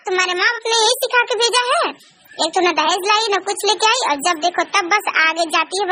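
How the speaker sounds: mock furious mother-in-law threatening the daughter-in-law. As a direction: threaten to drag her out by the hair. सास धमकाती है. (गुस्से में धमकाती सास)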